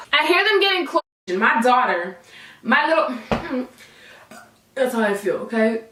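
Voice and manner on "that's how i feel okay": whisper. Real, not acted. Whispered aside.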